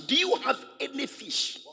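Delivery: high, teasing question; Jesus asking. Acted. Jesus teasing the fishermen, high mock question. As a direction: ask it like a gently mocking master.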